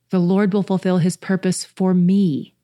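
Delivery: "will" leaned on, the tune falling to the end; stress on will. Shown as a demonstration. Final reading of the verse, firm on will. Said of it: "put the emphasis on a different section each time".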